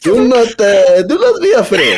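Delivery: high, loud mock Saudi accent; botched Arab-like accent. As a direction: ham up a vaguely Arab accent, half laughing. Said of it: "Is he from Saudi Arabia?".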